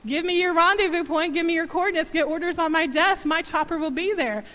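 lightly voiced chopper pilot giving orders; strong pilot voice. Mother retells the pilot insisting, mild command. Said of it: "strong voice came across the phone".

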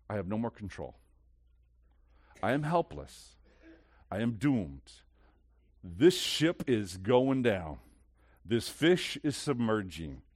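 low, halting admission of defeat; helpless confession. Pretend. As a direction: give up gravely, pausing after each sentence. Voices a helpless person's confession.

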